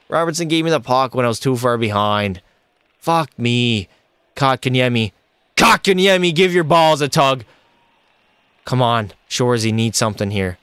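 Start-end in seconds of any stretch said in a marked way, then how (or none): 5.6-7.4 calling out teammate. Real, not acted. Barking catchphrase at teammate.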